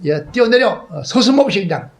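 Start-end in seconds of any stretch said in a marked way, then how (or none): 0.1-0.9 high, loud call to jump. Retold or imitated. Father calling up to his son to jump, high and loud. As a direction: urge him down from the wall.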